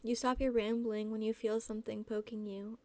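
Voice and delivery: even, measured reading voice; story narration. A narrator's reading. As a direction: read the story aloud in a restrained, level tone. Reads fan fiction aloud.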